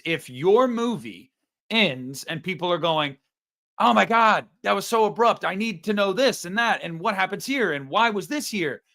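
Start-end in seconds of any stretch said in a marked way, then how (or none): 3.8-8.8 mock audience complaint. Acts out puzzled audience complaining.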